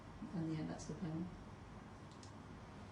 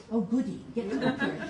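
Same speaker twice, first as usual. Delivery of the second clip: higher, louder mock delight; gleeful surgeon; 6 semitones higher, 4 dB louder than usual. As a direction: rub your hands, finally get to cut. Surgeon gleeful about operating.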